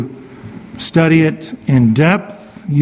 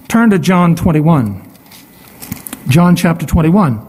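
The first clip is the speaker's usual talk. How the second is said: popping p sounds on the mic; hard mic pops on consonants; plosive pops. Real, not acted. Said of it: "My plosives are popping".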